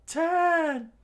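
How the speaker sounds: very high, loud countdown shout; screamed count. Acted. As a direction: yell the number. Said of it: "the two of them screamed out".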